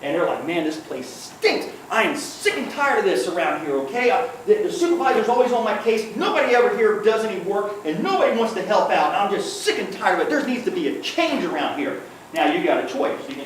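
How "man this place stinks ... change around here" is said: higher-pitched, griping rant about the job; mock disgruntled employee sounding off; fed-up venting. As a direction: complain like a worker at the end of his rope. Coworker venting in acted quote.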